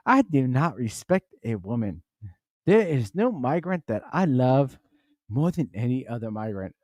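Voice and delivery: hammed-up African accent, swooping intonation; Eric Adams, African accent. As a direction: parody a politician with an African accent. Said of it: "if Eric Adams had the African voice".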